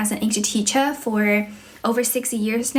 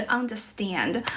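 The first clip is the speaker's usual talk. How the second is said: "understand" in British English, R dropped; British accent; 6 dB quieter, slower than usual. Shown as a demonstration. English teacher contrasting the R sound, British accent. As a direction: say "understand" British-style, without the r. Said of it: "英式的话就是".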